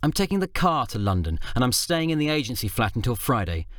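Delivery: a hint of a cold wife; stern wife. Faye announcing coldly.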